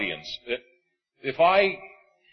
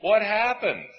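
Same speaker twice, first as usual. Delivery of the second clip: indignant car owner; 5 semitones higher than usual. Retold or imitated. Owner confronts about damaged car.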